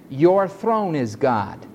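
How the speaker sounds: slow, dismissive quote of the wrong translation; mocking wrong reading. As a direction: read it like a rejected mistranslation. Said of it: "why would he speak of God being a chair".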